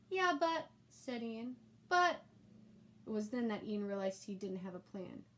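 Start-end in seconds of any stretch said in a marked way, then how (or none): 0.1-2.2 put-on much higher, louder stammering child; flustered kid. A narrator's reading. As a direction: stumble with no plan. Ian flustered.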